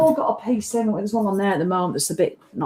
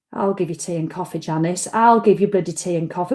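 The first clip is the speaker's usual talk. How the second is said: exasperated retort; 3 semitones lower than usual. Retold or imitated. Retold reply to client Janice, exasperated and lower. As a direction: grumble it through clenched patience.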